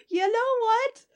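high-pitched giggly agreement; half-laughing, mock revelation. Retold own reaction, laughing.

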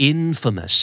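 infamous stressed on the first syllable, IN-famous; correct pronunciation. Shown as a demonstration. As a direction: say infamous with the weight on the front. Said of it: "อันนี้ยกเว้นนะครับ". (เน้นพยางค์แรก infamous)

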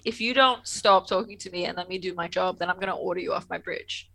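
understated, level mock warning; polite warning. Host imitating Picard warning Remick, polite warning. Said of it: "He's too polite".

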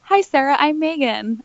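lightly voiced celebrity hello; imitated polite introduction. Voices celebrity introducing herself to girl.

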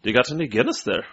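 mock Irish accent. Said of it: "I can do a good Irish accent".

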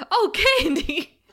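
wailing Lyle. Retold or imitated. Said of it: "Lyle's like".

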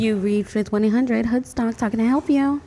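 hotline greeting voice; phone operator voice. Pretend. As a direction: answer like a sultry hotline operator. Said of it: "You got the voice for it".

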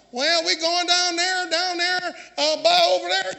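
imitated Southern country talk, drawn out; Southern accent. Preacher showing how speech locates people, imitated Southern accent. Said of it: "the South somewhere".

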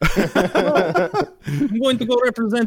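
high, slow, laughing disbelief; incredulous attorney. Pretend. Lawyer turning down the case, in high incredulous disbelief. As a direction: scoff at the idea like it's insane.

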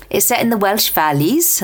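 lightly put-on Welsh lilt; a quick, self-mocking Welsh accent. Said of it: "that's my terrible Welsh accent".

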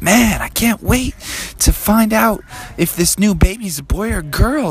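put-on high, eager kid; Froggy. Froggy waits to meet the baby, high excited voice. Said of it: "and Froggy was like".

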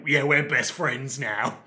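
slow, drawn-out chummy character voice; lightly put-on Australian tough guy; Kano. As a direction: stretch it out, matey and slow. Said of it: "they meet each other and they're like".

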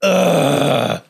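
imitated long groan; mock put-upon "ugh"; reluctant groan. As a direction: groan at being sent on an errand. Daughter's reluctant groan, retold.

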